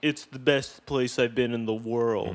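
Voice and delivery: ordinary delivery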